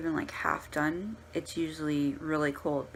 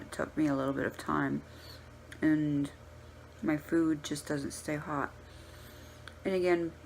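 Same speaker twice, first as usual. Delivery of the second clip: chewing while talking, mouth full. Real, not acted. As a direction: speak through a mouthful of food. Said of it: "sorry, I'm talking with my mouth full".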